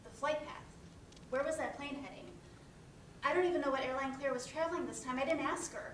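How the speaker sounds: frantic, voice climbing with dread; panicking about her sister's flight; panicked. Acted. Panicking over crash news.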